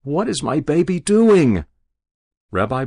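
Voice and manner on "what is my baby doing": higher, louder worried question; anxious mother. Acted. Mother turning to the kneeling rabbi, high anxious question. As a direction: demand it, frightened.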